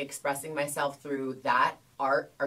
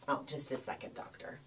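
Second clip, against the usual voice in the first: much softer, fading polite stall; sheepish stall; 2 semitones lower, 14 dB quieter than usual. Retold or imitated. To the doctor while adjusting, a soft sheepish stall. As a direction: mumble it away politely.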